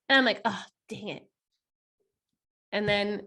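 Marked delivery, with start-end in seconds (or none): 0.4-1.2 muttered dang. Retold or imitated. Quoted groan, very soft.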